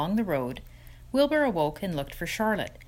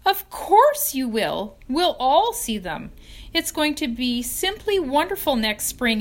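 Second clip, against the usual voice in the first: much higher, louder, excited piglet; eager protest; 5 semitones higher, 5 dB louder than usual. Acted. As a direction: cheer her up, rising with insistence. Wilbur protests, cheering her up.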